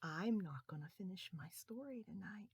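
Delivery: quiet and tender; soft bedtime sign-off. Real, not acted. Storyteller to children at bedtime, tender. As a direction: tuck them in gently.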